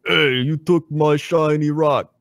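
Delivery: slow, dumb ogre voice; dim giant. Acted. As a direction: play a slow-witted ogre. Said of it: "do your ogre voice".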